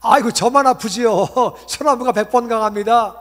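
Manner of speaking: a loud, laughing admission that he loses; laughing concession. Retold or imitated. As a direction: cry out and give in, laughing. Answering God, conceding with a laugh.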